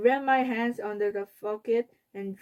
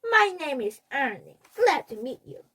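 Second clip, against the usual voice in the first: higher, lightly voiced puppet; Ernie voice; 4 semitones higher, 3 dB louder than usual. A narrator's reading. Fudge introducing himself as Ernie, lightly voiced puppet. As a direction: play the cheerful puppet. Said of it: "in his Sesame Street voice".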